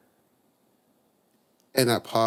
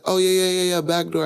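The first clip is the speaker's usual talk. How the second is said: much higher, hurried mom stalling; flustered mom; 8 semitones higher, 4 dB louder, faster than usual. Retold or imitated. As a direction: bluff your way through like a caught-out mother. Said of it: "And she was like".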